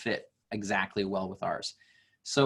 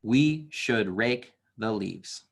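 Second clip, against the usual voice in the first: slow counted line; slower than usual. Shown as a demonstration. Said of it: "Last line".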